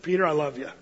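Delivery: low, tender and forgiving; tender reassurance. Acted. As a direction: say it softly, as loving reassurance. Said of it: "Or was it".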